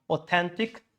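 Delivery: Authentic as au-THEN-tic; stress on second syllable. Shown as a demonstration. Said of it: "this should be the louder most sound".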